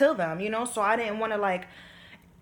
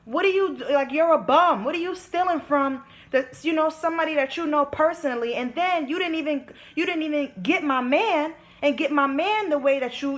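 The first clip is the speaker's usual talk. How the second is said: heated indignant rant; 5 semitones higher than usual. Real, not acted. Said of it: "I'm really coming at their whole life".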